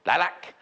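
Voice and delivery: "Lilac" with a full "lack" ending; Caroline Lindsay's pronunciation. Retold or imitated. Presenter quoting her friend's way of saying it, "Lilac" ending in "lack". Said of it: "as my friend Caroline Lindsay would say".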